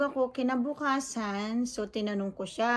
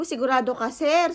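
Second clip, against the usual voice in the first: retold challenge; 3 semitones higher, 5 dB louder than usual. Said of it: "Sabi ko".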